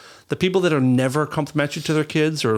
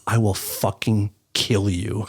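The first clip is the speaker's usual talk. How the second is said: low threat; 6 semitones lower, slower than usual. Retold or imitated. Repeats threat.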